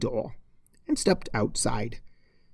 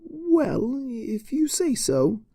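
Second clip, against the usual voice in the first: worried teacher checking on her; teacher Cheerilee asks if she's all right, higher; Cheerilee's voice; 12 semitones higher, slower than usual. Acted.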